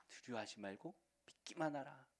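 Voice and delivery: quiet, tender echo; soft repeat. Acted. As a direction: say it gently to each listener. Repeated softly.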